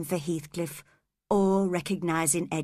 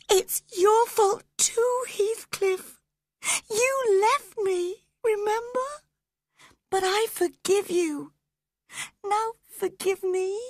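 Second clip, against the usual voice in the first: tearful pleading; 3 dB louder than usual. Acted. Catherine begging Heathcliff's forgiveness, crying. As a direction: beg forgiveness through tears. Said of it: "sobbed Catherine".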